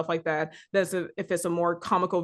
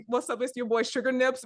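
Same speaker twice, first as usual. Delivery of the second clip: YouTuber intro voice; 5 semitones higher than usual. Retold or imitated. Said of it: "I think I call, like".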